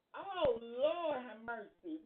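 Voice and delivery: slow, loud Lord have mercy; exasperated. Real, not acted. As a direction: draw it out in mock despair. Overwhelmed by clip.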